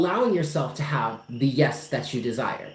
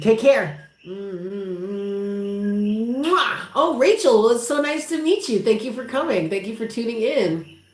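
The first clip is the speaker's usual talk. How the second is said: much higher, gushing welcome; high sing-song farewell; 5 semitones higher than usual. Real, not acted. Welcoming new viewer Rachel, high gushing sing-song. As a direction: gush sweetly in a high voice.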